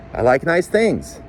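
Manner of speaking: high, slow and wounded; hurt. Acted. Wife hurt over curtains.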